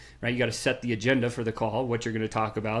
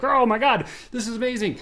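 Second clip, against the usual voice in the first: much higher, louder mock gushing; amazed gush; 10 semitones higher, 5 dB louder than usual. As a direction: gasp out fake amazement.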